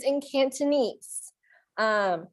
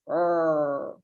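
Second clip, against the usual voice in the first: lower, soft mock roar; playful tiger roar; 7 semitones lower, 4 dB quieter than usual. Shown as a demonstration. Teacher doing a tiger sound for kids. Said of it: "How about a tiger".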